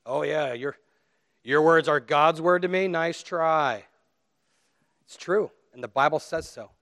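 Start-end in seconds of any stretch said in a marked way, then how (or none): 0.0-3.8 skeptical listener. Acted. Preacher voicing what the congregation is thinking, mock skeptical. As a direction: imitate a dubious heckler, drawn-level tone. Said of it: "And you're all thinking".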